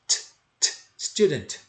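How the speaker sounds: lone voiceless "t" taps, then "student" ending on T; tapped final T. Shown as a demonstration. Teacher drills the ending for learners, tapped T. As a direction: tap "t" twice, then "student" with no final vowel. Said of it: "você só vai bater ali".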